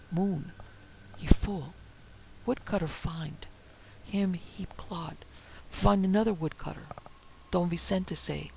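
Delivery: halting broken speech, short phrases with pauses; lightly voiced frightened servant. Servant confessing local lore to his master, lightly voiced halting tale. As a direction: tell it haltingly, a hint of dread.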